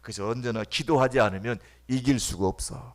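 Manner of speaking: normal talking voice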